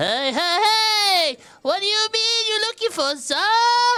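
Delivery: tiny, very high voice, "sir" stretched out. Retelling a film scene, a little voice calls from behind the old lady: tiny Babu Frick voice. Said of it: "you hear a little voice".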